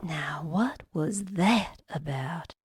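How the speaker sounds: suspicious whispered aside to herself. Acted. Suspicious aside after being dismissed.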